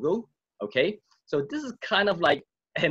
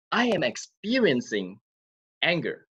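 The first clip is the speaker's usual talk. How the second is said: calm reframing; 2 semitones higher than usual. Shown as a demonstration. Coach showing a calmer way to name anger. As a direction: say it calmly as an observation. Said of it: "change the way you say it".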